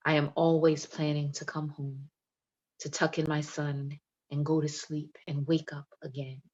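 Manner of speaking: measured, deliberate spoken-word delivery; poem recitation. Acted. Poet reading her poem to an online audience, measured spoken word. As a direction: let each line land like testimony.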